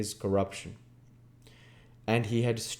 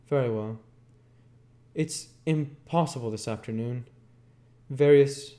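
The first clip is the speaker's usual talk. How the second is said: Jordan curt; 5 semitones higher, 4 dB louder than usual. A narrator's reading. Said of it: "Jordan replying".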